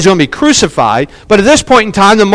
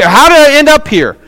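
baffled question; 7 semitones higher than usual. Retold or imitated. Voicing someone's baffled question.

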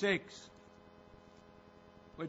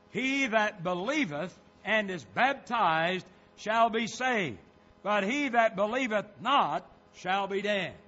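forceful pulpit reading with punched key words; insistent sermon delivery; emphatic preaching; 3 semitones higher, 5 dB louder than usual. Real, not acted. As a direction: press each point on the congregation. Reads sermon text aloud.

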